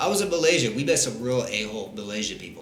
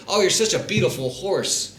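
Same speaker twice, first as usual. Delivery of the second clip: mock sweet compliment; 7 semitones higher, 4 dB louder than usual. Mock compliment to friend's mother.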